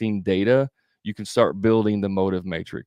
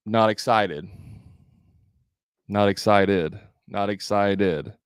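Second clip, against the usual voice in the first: "excited" falling away at the end like a statement; drop-off, confirming; slower than usual. Shown as a demonstration. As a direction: say "Not excited" as a confirmation, with no rise. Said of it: "That's, like, confirming".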